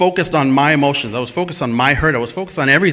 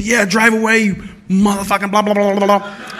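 raised voice, hammed-up swearing; retold cursing; 5 semitones higher than usual. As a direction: yell insults as he drives off. Cursing at driver through window.

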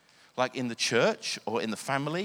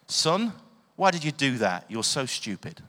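sharp loud "Son" then harsh put-down; scolding father; 3 semitones higher, 5 dB louder than usual. Retold or imitated. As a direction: scold the child like an exasperated parent. Parent scolding son, quoted.

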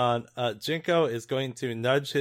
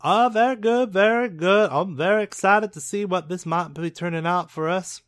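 band member voice; 4 semitones higher, 4 dB louder than usual. Acted.

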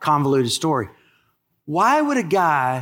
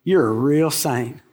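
plain, friendly "You're a real saint."; saying it to a neighbour; 4 semitones lower than usual. Real, not acted. Pastor has the congregation tell each other, friendly. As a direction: tell the person beside you they're a saint. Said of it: "Let's do that right now".

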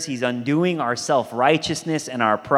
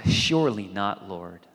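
Peter's protest; 7 semitones lower, 6 dB quieter than usual. Retold or imitated. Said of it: "To which Peter responds".

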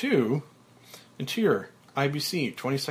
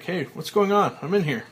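calling out; 6 semitones higher, 6 dB louder than usual. Acted. Trapped in coffin, calling out.

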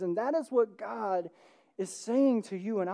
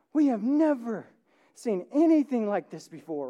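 amazed crowd; 3 semitones higher, 4 dB louder than usual. Acted.

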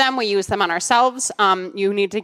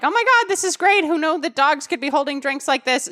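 high squealing delight; gushing excitement; 6 semitones higher than usual. Retold or imitated. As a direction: gush like an excited sorority sister. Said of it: "My sorority sisters are like".

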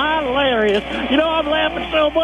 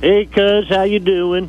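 deep hick caller; low caller voice; 7 semitones lower than usual. Acted. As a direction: drop low for a country caller. Prank caller character voice.

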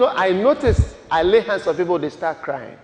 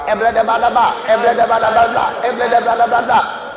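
imitating rote speaking in tongues; mock tongues. Preacher mimics believers' one idea of the Spirit, mock tongues. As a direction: rattle off identical syllables like a routine. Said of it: "when the Holy Spirit comes, tongues".

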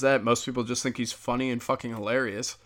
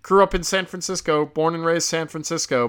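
much higher, louder squeaky caricature voice; a high, shrill-pitched mock caricature; mocking impression; 6 dB louder than usual. Mocking the skier who plays for China, high and loud.

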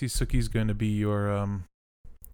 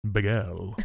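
"Bagel" said pih-gell; southern bagel. Shown as a demonstration. Mimicking southern nations, Bagel said pih-gell. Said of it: "That's what we say in the southern nations".

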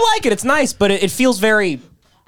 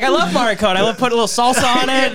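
mock quote, laughing; 5 semitones higher than usual. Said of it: "you're like".

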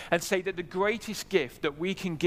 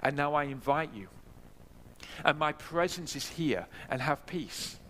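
mildly gentle quoted reassurance, unhurried; 4 dB quieter than usual. Retold or imitated. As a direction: invite softly, as a loving savior. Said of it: "He is gentle".

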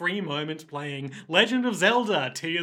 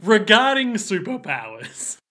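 raised, louder announcement; formal title reading; 5 semitones higher, 6 dB louder than usual. Real, not acted. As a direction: announce it like a chapter heading. Announces title of passage read out.

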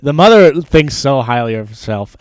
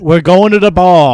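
loud, high and giddy; excited; 6 semitones higher, 7 dB louder than usual. Acted. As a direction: sing it out like a party is coming. Excited announcement.

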